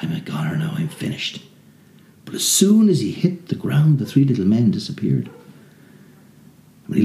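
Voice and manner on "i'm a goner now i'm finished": soft whispered resignation; hushed despair. A narrator's reading. Tom thinking he's finished, whispered. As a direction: breathe it like all hope is gone.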